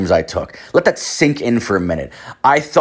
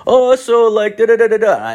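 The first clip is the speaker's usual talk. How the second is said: high, loud imitation of chattering; Indian cab driver; 13 semitones higher, 5 dB louder than usual. Cab driver chatting to passenger, high loud babble. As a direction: mimic a talkative driver with nonsense syllables. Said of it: "he's, like, this Indian guy".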